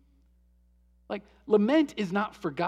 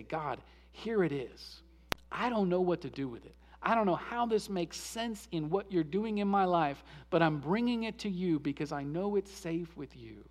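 soft honest prayer; 2 semitones lower, 5 dB quieter than usual. Shown as a demonstration. Preacher voicing a quiet trusting prayer of lament. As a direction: hand the pain over gently. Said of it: "is to say".

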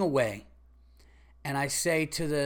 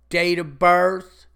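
slow, loud, bored clerk voice; curt clerk; 8 dB louder, much slower than usual. Retold or imitated. Comic imitating the rude pharmacy clerk, a slow, loud bored voice. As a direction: drag out the words like you couldn't care less.

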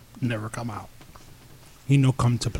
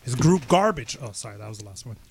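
trash-talk promo. Acted.

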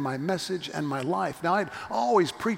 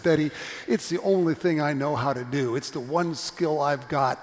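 louder, earnest insistence; emphatic; 5 dB louder than usual. Retold or imitated. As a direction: press it home firmly. Emphatic reply to Betty.

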